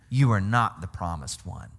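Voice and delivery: scandalized accusers, hammed-up with laughs; mock outraged Pharisees. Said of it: "That's why they're saying".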